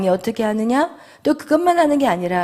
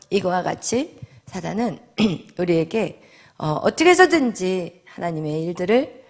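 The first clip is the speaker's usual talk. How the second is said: ordinary talk, nothing marked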